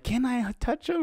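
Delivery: high, slow, drawn-out request; imitated fawning girl. Girl asking to touch the dog, imitated fawning. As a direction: mimic a smitten girl asking to pet a dog.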